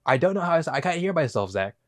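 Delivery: soft, muted talk; talking with ears blocked. Shown as a demonstration. Host tests talking without hearing himself, subdued voice. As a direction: talk softly, unable to hear yourself. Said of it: "Have you ever tried talking like this".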